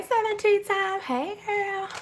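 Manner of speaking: high-pitched greeting. Pretend. Playful greeting to planner insert.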